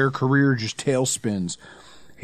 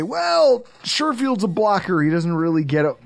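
mocking know-it-all; 4 semitones higher than usual. Mocking critics' doubts.

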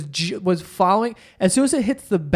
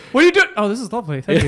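mocking voice; 3 semitones higher, 3 dB louder, faster than usual. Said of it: "mimics him".

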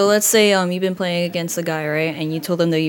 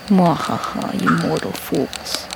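sneering panto villain; slower than usual. Pretend. Teen voices game villain.

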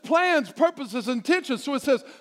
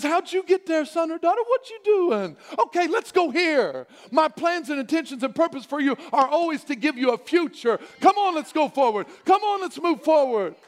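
encouraging; 5 semitones higher than usual. Acted. God voiced encouraging a child.

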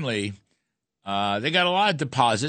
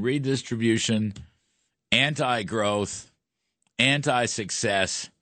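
1 slow emphatic list; slower than usual. Real, not acted. Listing budget faults.

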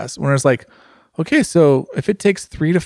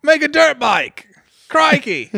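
very high, hammed-up Australian cries; Australian accent; 13 semitones higher, 3 dB louder, much slower than usual. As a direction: shout like a cartoonish Australian, pitched way up. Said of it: "Straight Australian".

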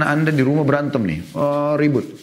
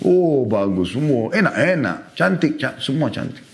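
praising wife; slower than usual. Shown as a demonstration. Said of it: "Puji saja".

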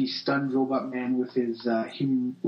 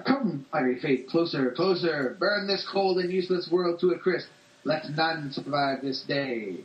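villain voice; 3 semitones higher than usual. Acted. Villain speech read aloud.

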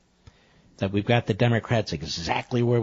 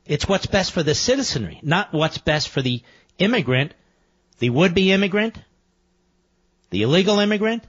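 indignant; 5 semitones higher than usual. Real, not acted. Host rants against immigration talking points.

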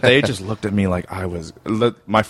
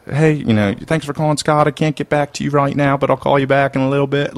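put-on Baltimore voicemail accent; 7 semitones higher than usual. Comic imitating his old Baltimore voicemail greeting, broad accent. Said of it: "it's so trashy".

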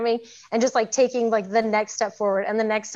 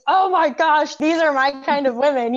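higher and louder, thrilled gushing; excited gush; 5 semitones higher, 3 dB louder than usual. Retold or imitated. Listening to a podcast episode, a gushing excited reaction. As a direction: burst out like you found your people.

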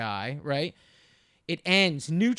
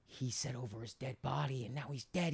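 mild imitation of a fan; 6 semitones lower, 12 dB quieter than usual. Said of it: "this guy next to me goes".

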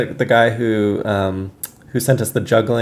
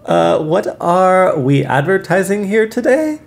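slow, slightly higher interviewer voice; playing Raph; 6 semitones higher, slower than usual. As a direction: play the friend, unhurried. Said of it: "I'm performing you".

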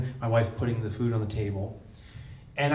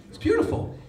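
laughing scornfully; 3 dB louder than usual. Real, not acted. Mocking the rock bottom saying.

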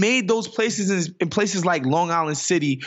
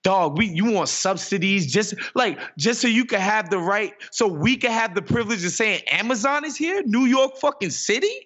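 incredulous mock outburst; 4 semitones higher than usual. New Yorkers telling Amazon off, incredulous and rising. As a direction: voice climbing higher into disbelief, ending in a high cry. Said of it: "stepped up and was like".

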